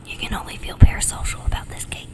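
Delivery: whispered ASMR aside. Real, not acted. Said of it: "maybe I can try some A S M R".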